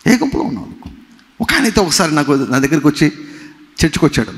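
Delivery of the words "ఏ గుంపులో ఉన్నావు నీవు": the same question again, pitched much higher; pressing repeat. Real, not acted. Preacher presses the congregation again with a sharply higher question. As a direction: push the question up high with గుంపులో lifted.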